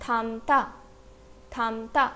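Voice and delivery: "थामता" as tham-ta, only M closing the first syllable; pronunciation demo. Shown as a demonstration. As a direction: model "थामता" carefully in two syllables, M held before the ta. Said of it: "तो पूरे word का pronunciation क्या हुआ?". ("थामता" का उच्चारण थाम-ता, म साफ़)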